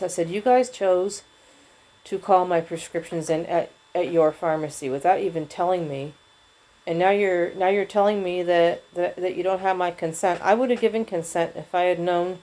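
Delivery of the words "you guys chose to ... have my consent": steady and measured, anger held in check; more controlled voice. Retold or imitated. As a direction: restate it calmly, keeping it together. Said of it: "I said this in a more controlled voice".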